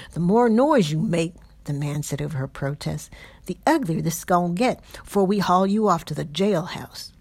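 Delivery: loud, coarse threat over her protest; a brute silencing his captive; menacing patroller voice. Acted.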